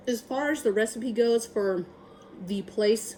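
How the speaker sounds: talking while chewing; words round a mouthful of jerky; mouth full. Real, not acted. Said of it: "talking my mouth full".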